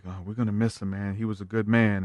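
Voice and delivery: soft, quiet mock mourning; hushed imitation of a grieving family. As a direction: murmur it like grieving at the table. Family mourning grandpa at table.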